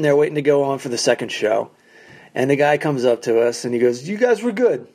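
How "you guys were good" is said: faint praise. Retold or imitated. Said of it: "giving us the "you were guys were good".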